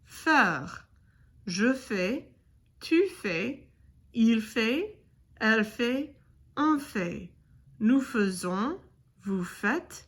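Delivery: careful French conjugation, each form set apart; pronunciation demo. Shown as a demonstration. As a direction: model each verb form for learners. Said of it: "let's go over the whole thing again".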